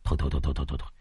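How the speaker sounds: soft, low repeated stop; hushed brushing off. A narrator's reading. Uncle hushes the boy's talk of the ghost, quietly. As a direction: wave it away under the breath. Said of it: "Ông xua tay".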